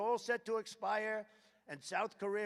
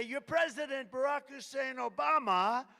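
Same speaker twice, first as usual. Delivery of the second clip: louder, higher rally call; name drop; 5 semitones higher, 5 dB louder than usual. Retold or imitated. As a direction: announce it with relish. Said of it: "So I'll say".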